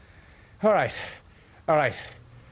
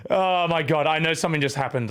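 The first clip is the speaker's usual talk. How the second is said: breathless after rapping; panting between words; out of breath; 3 semitones lower, faster than usual. Real, not acted. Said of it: "let me just catch my breath".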